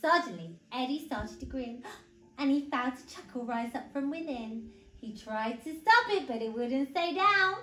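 put-on animated read-aloud for small children; story narration. A narrator's reading. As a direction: tell it clearly and expressively to little ones.

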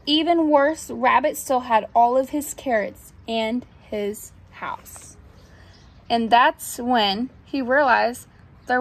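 measured storybook narration; reading to children. A narrator's reading. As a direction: read it to little ones, pausing between phrases. Reads picture book aloud.

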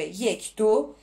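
drawn-out teacher's count for the class; slow counted demo. Shown as a demonstration. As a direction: count it out very slowly, beat by beat. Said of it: "ببین اینجا".

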